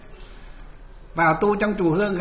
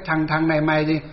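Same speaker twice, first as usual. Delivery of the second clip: mildly acted stern rebuke from an old master; imitating an elder monk telling someone off; retold scolding. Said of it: "cụ mới quát cho một cái".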